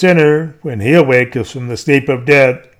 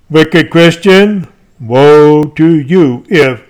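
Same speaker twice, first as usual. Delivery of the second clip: stern denunciation; 4 dB louder, slower than usual. Acted. Preacher denounces sinner.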